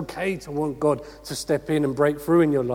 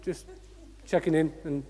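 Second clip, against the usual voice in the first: casual check-in. Acted. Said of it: "actually go to God and go".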